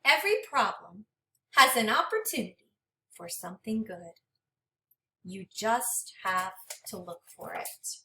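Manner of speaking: gentle, expressive storybook read-aloud; reading to children. Acted. Teacher reading a storybook to her class, expressive and gentle. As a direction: read it like a picture book for a class. Teacher reads the book's ending.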